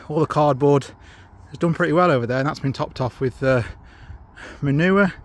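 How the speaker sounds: puffing between words after digging; winded, breathing hard. Real, not acted. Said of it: "I'm really out of breath".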